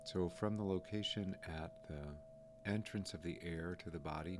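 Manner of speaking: calm, unhurried meditation guide, pausing between phrases; lightly softened guiding voice, leaving room to breathe; guided meditation. Real, not acted. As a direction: gently guide listeners through noticing the breath.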